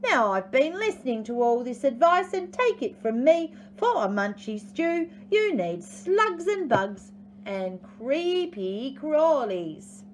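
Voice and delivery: high, prickly echidna giving advice; hammed-up huffy know-all; bristling. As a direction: insist on it, drawing out the last words. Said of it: "he bristled".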